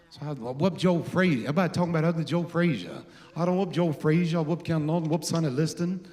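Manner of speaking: put-on strut through the brag like the old champ; boxer's boast impression. For Mike Tyson, hinting at the champ's boast. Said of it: "John, do what you do. Show Mike".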